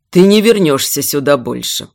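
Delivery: low, decisive promise; abrupt, firm. Acted. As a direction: cut in firmly. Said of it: "резко ответил Эйдерт".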